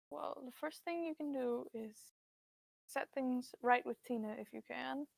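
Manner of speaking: frail mother voice. Acted. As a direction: speak as a worried, frail mother.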